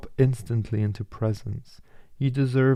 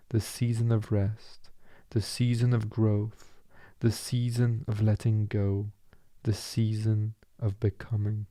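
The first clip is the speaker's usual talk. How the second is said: meditative reflection. Acted.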